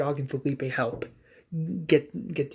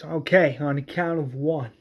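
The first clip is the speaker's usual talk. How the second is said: mild mock yell; 5 dB louder than usual. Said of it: "Herschel screams".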